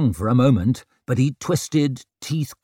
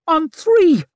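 urgent hiss; 5 dB louder than usual. A narrator's reading. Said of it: "he hissed".

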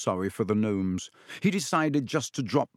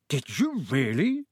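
eager. Acted. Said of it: "said Mister Weasley eagerly".

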